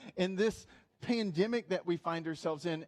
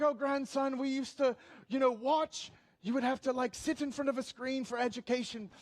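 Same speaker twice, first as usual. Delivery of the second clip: storytelling granddad; 4 semitones higher than usual. Acted. Acted granddad in earlier British accent.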